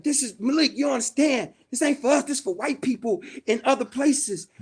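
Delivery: mock a fed-up boss setting someone straight; retold annoyance. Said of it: "he was pissed".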